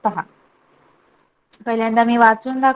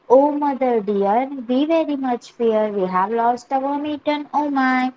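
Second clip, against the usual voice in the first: slow, measured nursery-rhyme reading; poem recitation; much slower than usual. Acted. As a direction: recite it phrase by phrase for young pupils. Reads the poem aloud to class. (मुलांसाठी सावकाश कविता वाचन)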